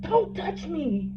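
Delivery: high, slow, sharp mock snap; enraged warning. To the lady who touched her face, a slow angry snap. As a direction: bite it off slowly, mock furious. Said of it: "I was enraged".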